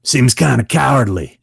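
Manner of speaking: imitated critical method actor; Robert Patrick. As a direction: pass judgment as the difficult actor. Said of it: "And he goes".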